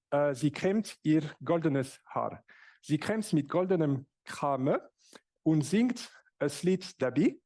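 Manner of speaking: Swiss German accented poem recital; halting recitation with a Swiss German accent. Shown as a demonstration. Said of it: "it's Swiss German accent".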